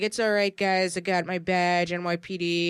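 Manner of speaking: calling out to cops. Retold or imitated. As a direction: announce yourself to armed cops over the noise. Dad calls to other cops.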